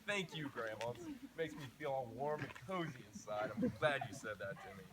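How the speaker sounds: mock-grateful, dripping sarcasm; sarcastic thanks. Sarcastically thanking grandma for her grim advice, dripping sarcasm. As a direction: thank her while meaning the opposite.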